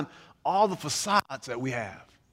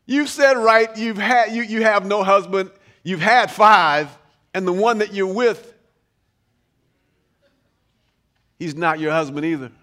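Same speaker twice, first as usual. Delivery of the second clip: like Jesus; 4 dB louder than usual. Retold or imitated. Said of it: "Or you could say it like Jesus".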